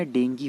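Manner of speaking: डेंगी said "DEN-gee", ending in ee; correct pronunciation. Shown as a demonstration. Teacher introduces the word's proper sound, correct pronunciation of डेंगी with final ee. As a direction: end डेंगी on a long ee. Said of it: "pronunciation बहुत गलत करते हैं".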